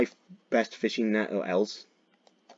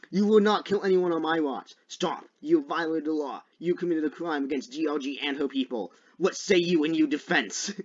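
lawman; 5 semitones higher than usual. Pretend. Plays lawman accusing a player.

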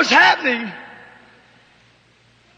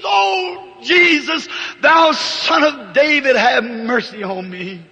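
loud desperate cry for mercy, falling at the end; screamed plea; 4 dB louder than usual. Retold or imitated. Blind beggar crying to Jesus over the crowd, loud desperate plea. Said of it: "And he screams".

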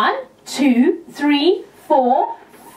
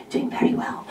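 whisper; 7 dB quieter, faster than usual. Real, not acted. Whispered aside.

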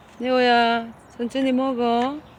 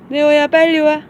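calling out; 6 semitones higher, 4 dB louder than usual. Real, not acted. Calling the dog to eat.

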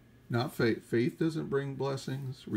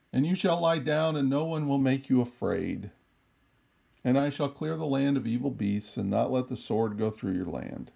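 solemn, measured scripture read. Acted. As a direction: read the promise out with weight. Reads scripture aloud.

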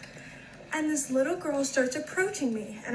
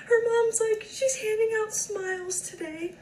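laughing while telling; 6 semitones higher than usual. Real, not acted. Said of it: "and it's a smile".

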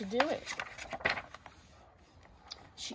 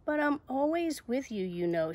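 higher start, sinking at the end; little doubting voice; 5 semitones higher, 3 dB louder than usual. Acted. Little voice reminding Zoe it stays, nagging. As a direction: needle with a lingering reminder. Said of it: "says the voice".

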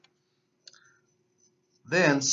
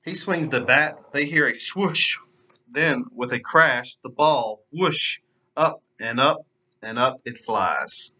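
put-on lively storybook narration for kids; animated read-aloud voice; children's story reading. A narrator's reading. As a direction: read it like story time for little ones. Reads picture book to children.

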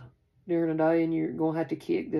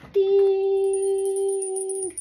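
mimicked chime, much higher and louder; high sung bell ding; 8 dB louder than usual. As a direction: ring it out like a bell. Mimics bell after clearing energy.

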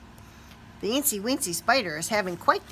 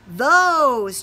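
eager; 4 semitones higher, 7 dB louder than usual. A narrator's reading. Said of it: "chose the spider".

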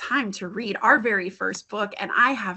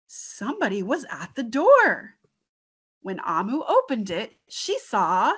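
put-on lively read-aloud for children; storytime reading. Teacher reading a picture book to young kids, animated. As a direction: read the story with bright expression.

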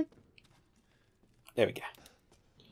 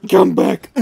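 shouting; 6 semitones higher, 10 dB louder than usual. Real, not acted. Shouting after fleeing enemy.

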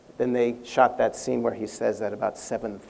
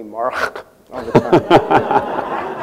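laughing; 11 dB louder, much slower than usual. Real, not acted. Laughing while recalling the nickname.

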